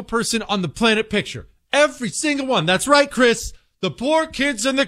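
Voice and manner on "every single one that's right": usual speaking voice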